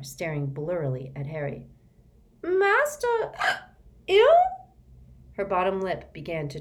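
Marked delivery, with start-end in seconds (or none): 2.4-4.4 high, loud, slow gasping elf; shocked elf. Acted. Winky hearing her master is ill, gasping. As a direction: gasp it out in alarm.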